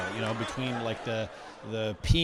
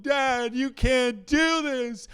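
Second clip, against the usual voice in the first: put-on very high, loud child's protest; screaming little kid; 11 semitones higher, 6 dB louder, slower than usual. Child to peeing dad, acted screaming protest. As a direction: shriek it like an outraged small child. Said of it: "while a little kid is screaming at me".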